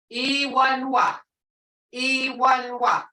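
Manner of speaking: E one wa. spoken slowly syllable by syllable; teacher slows down for learners; slow word demo. Shown as a demonstration. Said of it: "His or her brother".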